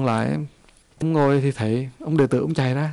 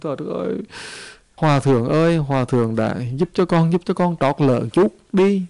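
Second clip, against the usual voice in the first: tearful pleading; 4 dB louder than usual. Acted. A poor pregnant woman begs the monk for help, tearful pleading. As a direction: beg him through tears, voice lifted. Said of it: "cô kia cô khóc".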